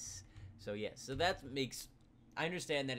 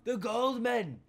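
high, loud thrilled cry; excited shout; 14 semitones higher, 18 dB louder, much slower than usual. Real, not acted. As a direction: shout with delight at the treasure. Excited on finding gold.

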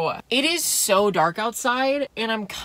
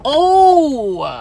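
laughing oh; 6 semitones higher, 9 dB louder than usual. Real, not acted. Nearly hits lawn lights.

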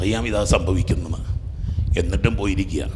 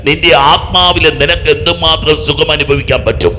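raised, loud, building sermon voice; forceful preaching; 7 semitones higher, 7 dB louder than usual. Real, not acted. Preacher contrasting body's pleasure with the soul's, forceful preaching. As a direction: build the comparison with mounting force.

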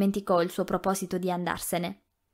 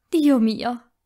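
sharp, louder gasp of shock; 4 semitones higher, 5 dB louder than usual. A narrator's reading. Rossella hearing Melania is pregnant, shocked. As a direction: hit by sudden news.

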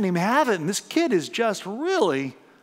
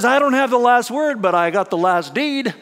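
smug stewer; 3 semitones higher, 6 dB louder than usual. Retold or imitated. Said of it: "stewer does is".

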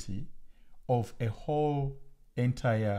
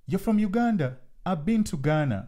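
higher, eager mock small talk, a bit louder; imitating clueless people; 6 semitones higher, 3 dB louder than usual. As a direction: parody a well-meaning stranger who mixes up countries. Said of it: "people talk to me and they say".

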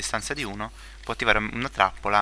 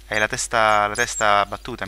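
louder teasing jab at the villager; mock scolding; 5 dB louder than usual. Scolding a stubborn villager, loud mock teasing. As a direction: scold the villager like he's thick-headed.

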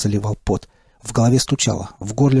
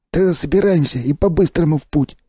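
high, cheery gruff stalker praise; hearty stalker; 5 semitones higher than usual. Acted. Sipliy cheers the revived narrator in a high, hearty voice. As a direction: clap him on the back with your voice.

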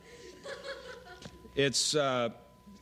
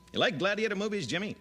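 Peter Graves; 6 semitones higher, faster than usual. Retold or imitated. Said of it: "Peter Graves".

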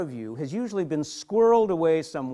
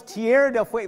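loud, raised-pitch mock call; conductor's call, louder and higher; retold yell; 7 semitones higher, 8 dB louder, faster than usual. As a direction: imitate a conductor yelling the stop. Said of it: "He yells".

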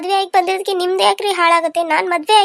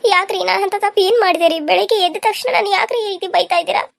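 higher, upset, close to tears; tearful protest; 4 semitones higher than usual. Acted. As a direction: plead through tears against his scolding. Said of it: "ಅಳ್ಮುಂಜಿ". (ಅಳುತ್ತಾ ನೊಂದ ಧ್ವನಿ)

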